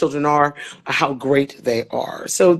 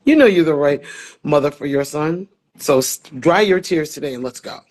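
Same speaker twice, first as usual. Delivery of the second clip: with attitude. Retold or imitated. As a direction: imitate a colleague's no-nonsense talking-to. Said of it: "looked at me with an attitude".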